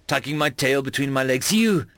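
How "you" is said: earnest alien friend. A narrator's reading. Tarver's heartfelt confession.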